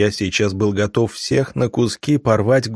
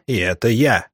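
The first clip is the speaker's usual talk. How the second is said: spitting contempt; 2 semitones higher than usual. Acted. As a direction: spit each word at his face. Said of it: "выплюнул мне в лицо вожак".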